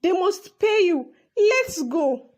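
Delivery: loud and firm; indignant. Acted. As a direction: insist with anger. Angry mother insists.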